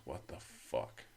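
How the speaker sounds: slow, hushed, drawn-out disbelief; imitated whispered shock. Roommate finding him on the floor, slow whispered shock. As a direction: whisper it slowly like the roommate did.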